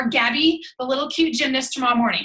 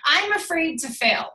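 slower, mocking little whine; mock whiny fear; 3 semitones higher, slower than usual. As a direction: drag it out like a scared excuse. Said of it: "have said".

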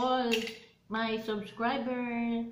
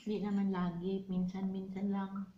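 talking while eating; 2 semitones lower, much faster than usual. Real, not acted. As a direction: mouth partly full. Seen 1: Spooning purple ice cream from mug to mouth while talking.

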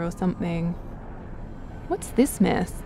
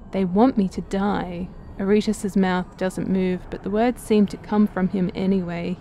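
game dialogue reading. A narrator's reading. Player reading the game's story aloud in a measured narrator voice. Reads game text, voicing Aretus.

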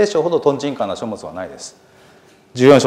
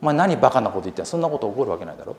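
quick scoffing retort, dropping softer at the end; mocking dismissal; 6 dB quieter, faster than usual. The clever people scoffing at Noah's flood warning, fast mocking dismissal. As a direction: brush him off as a fool, fast. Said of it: "情報をフェイク扱いしました".

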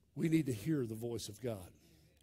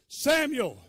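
high, loud call of a name; 11 semitones higher, 11 dB louder than usual. Retold or imitated. A voice calls the sleeping boy, calling out loudly. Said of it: "a voice call him".

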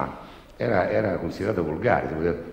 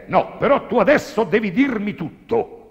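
higher, louder standard Italian demo; 14 semitones higher, 6 dB louder than usual. Shown as a demonstration. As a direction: say it in proper Italian. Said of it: "questa è in italiano".

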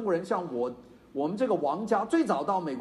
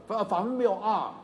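ordinary talk

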